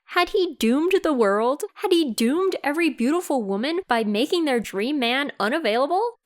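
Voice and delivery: mock-dramatic. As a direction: overdramatize the hero's woe. Mock-dramatic recap of hero's worry.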